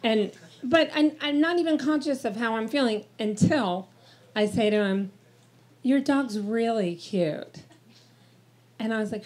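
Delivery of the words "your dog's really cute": slow, softer flirty coo. Retold or imitated. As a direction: draw it out flirtatiously. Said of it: "this is Flirty Lynn".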